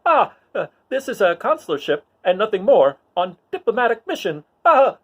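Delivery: high, loud, strangled pleading; terrified rebel officer gasping under a grip; choked rebel pleading. Acted. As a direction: beg for your life while being choked. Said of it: "grabbing him by the throat".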